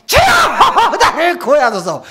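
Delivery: high, loud "구원하소서" shouted; loud cry. Shown as a demonstration. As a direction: call out boldly. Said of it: "일 번이요, 이 번이요". (크게 외치는 "구원하소서")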